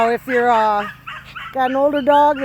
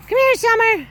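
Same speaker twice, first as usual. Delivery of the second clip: high calling voice; 13 semitones higher, 3 dB louder than usual. Real, not acted. Owner calling puppy Summer back on the walk, high calling voice. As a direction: pitch it way up and sing her name.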